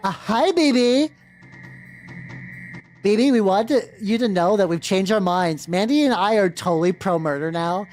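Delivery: put-on valley girl. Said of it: "They grew into the Valley Girl voice".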